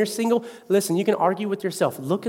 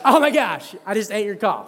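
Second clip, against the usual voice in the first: laughing. Retold or imitated. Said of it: "I was like".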